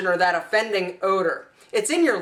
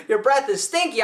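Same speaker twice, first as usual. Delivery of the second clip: friend warning. Retold or imitated. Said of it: "been like".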